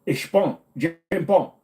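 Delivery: slow, high-pitched mock Filipino accent; attempted Filipino accent. Streamer botching an Asian accent, lands on mock Filipino. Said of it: "That's Filipino, sorry".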